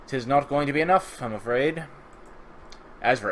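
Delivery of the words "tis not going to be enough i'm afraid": higher, louder mock-archaic pronouncement; mock formal. Player redoing his own remark for his viewers, mock formal. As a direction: play at stately regret.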